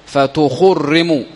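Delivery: فتخرموا said slowly, each syllable apart, falling; فتخرموا drawn out syllable by syllable; slow spelled-out word. Shown as a demonstration. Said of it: "فت-، بضم الثاني".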